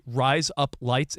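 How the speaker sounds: "rise up lights" said slowly to pass for Australian "razor blades"; slow "rise up lights" as an Australian accent trick. Shown as a demonstration. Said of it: "it sounds like you're saying razor blades".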